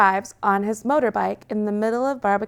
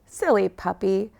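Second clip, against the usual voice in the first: mild scolding tone; a gentle telling-off. Acted. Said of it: "scolds Rockstar Merc".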